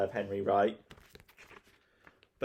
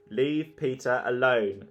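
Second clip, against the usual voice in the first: shout; 2 semitones higher, 4 dB louder, slower than usual. Acted. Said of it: "shouted Mum".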